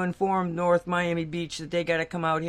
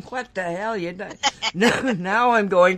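laughing; 5 dB louder than usual. Real, not acted. Laughing about her earlier cursing.

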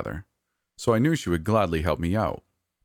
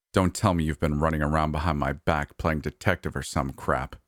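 slightly menacing. Acted. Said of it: "in a low, slightly menacing tone".

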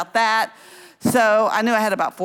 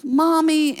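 high-pitched mock child's cry; imitated little girl; 9 semitones higher, 3 dB louder than usual. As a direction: imitate a four-year-old calling for mother. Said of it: "she starts crying".

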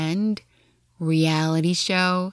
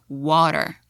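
American water; 2 semitones lower than usual. Shown as a demonstration. A teacher contrasting the American T in water. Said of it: "and in American".

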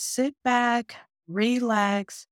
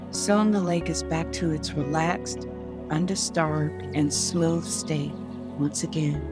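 sleep story narrator. Acted. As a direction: lull them calmly, word by word. Leads a guided meditation.

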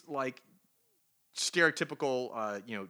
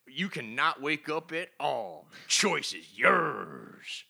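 Carol Danvers; 3 semitones higher, 5 dB louder than usual. Retold or imitated. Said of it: "and she says".

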